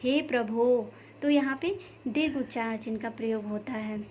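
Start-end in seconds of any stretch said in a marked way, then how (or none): 0.0-0.8 "हे प्रभु" with the long vowels stretched; drawn-out vowel. Shown as a demonstration. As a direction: draw out "प्रभु" like an appeal. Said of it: "ज़्यादा खींच के बोला जाता है".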